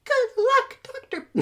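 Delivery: falsetto cracking up high; voice breaking. Acted. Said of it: "My voice breaks every time".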